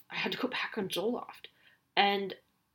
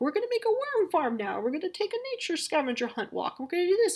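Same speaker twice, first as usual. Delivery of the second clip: high-pitched, frantic mock enthusiasm; mock over-eager planner; 11 semitones higher than usual. Mom imitating herself driven crazy planning activities, mock over-eager. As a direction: rattle off plans in a hammed-up high voice.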